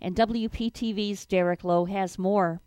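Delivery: steady newscast delivery, phrases stepping down; radio news read. Acted. Newsreader handing to TV reporter, radio news read. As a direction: read it as a local radio bulletin.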